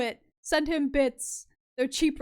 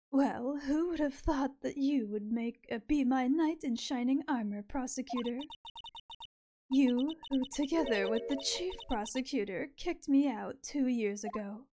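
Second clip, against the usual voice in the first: sultry Ara Ara voice; 4 dB quieter than usual. Acted. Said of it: "a sultry Ara Ara voice".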